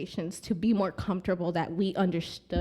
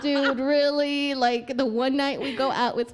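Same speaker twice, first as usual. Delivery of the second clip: annoyed; 3 semitones higher than usual. Retold or imitated. Woman scolding her drunk boyfriend the night he proposed, annoyed. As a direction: let the annoyance at his drinking spill out. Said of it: "annoyed at this point?".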